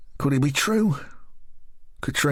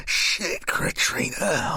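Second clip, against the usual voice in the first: startled gasp; 7 semitones higher, much slower than usual. Acted. Startled by Katrina creeping up.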